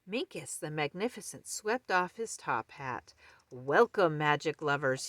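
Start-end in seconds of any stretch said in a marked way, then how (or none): 3.5-5.1 crowing. Acted. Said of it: "he crowed".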